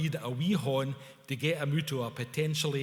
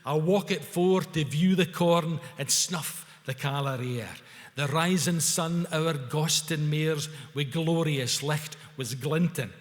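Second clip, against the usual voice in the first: full-voiced verse recital; glorious declaiming; 3 dB louder than usual. A narrator's reading. Two Kyle lads recite Burns together, gloriously declaiming. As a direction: declaim it proudly with a crony. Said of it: "continued in glorious crony unison".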